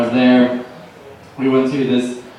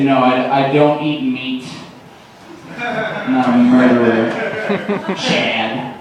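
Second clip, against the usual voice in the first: deadpan; 3 semitones lower, slower than usual. Retold or imitated. Deadpan punchline to Chad.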